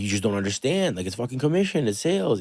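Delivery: mock the frustrated young salesman pleading; retold angry protest. To his dad about commission, a rising exasperated protest. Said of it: "I'm like, I was so angry".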